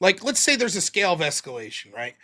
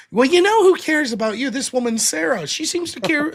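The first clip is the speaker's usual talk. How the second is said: mock jab; 6 semitones higher, 4 dB louder than usual. Retold jab at caller.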